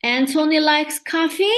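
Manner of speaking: rising question tune on "coffee?"; statement turned into a question by a rise on "coffee". Shown as a demonstration. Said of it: "As in the example".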